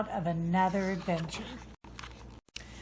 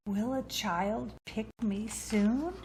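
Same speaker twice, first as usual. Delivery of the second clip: hopeful wish. Acted. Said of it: "dared to hope and dream".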